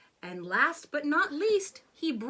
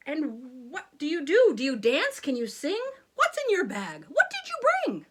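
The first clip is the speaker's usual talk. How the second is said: demanding questions; 6 dB louder than usual. Acted. King questions loudly.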